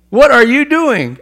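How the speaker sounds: loud, high and slowed, each word hammered; king pressing the servant again, slow and outraged; slowed angry rebuke. Retold or imitated. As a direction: drag it out in disbelief.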